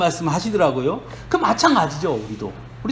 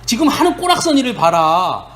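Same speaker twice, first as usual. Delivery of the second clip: raised, reproachful scolding of a fallen friend; scolding rebuke; 4 semitones higher than usual. Retold or imitated. Friend Eliphaz rebukes Job, raised scolding voice. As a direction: scold him for not practising what he preached. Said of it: "하면서 욥을 질책합니다".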